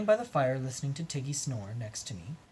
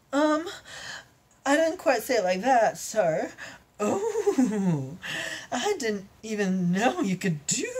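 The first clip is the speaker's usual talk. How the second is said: high eager unicorn; 7 semitones higher, slower than usual. Acted. Unicorn telling her lover the safe words, high and eager. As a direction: chirp it out like a giddy unicorn.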